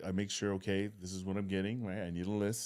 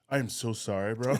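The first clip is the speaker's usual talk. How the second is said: imitating heartfelt sympathy; empathetic. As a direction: play up the apologetic bro. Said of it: "with empathy in the face he shared".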